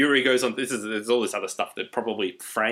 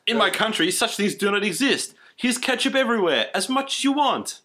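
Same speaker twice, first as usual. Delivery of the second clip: put-on high hammy Russian accent; exaggerated Russian bragging; 8 semitones higher than usual. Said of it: "Yuri says".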